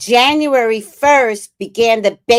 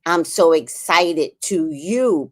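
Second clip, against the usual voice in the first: exaggerated excitement; 5 semitones lower, slower than usual. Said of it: "So I'm exaggerating".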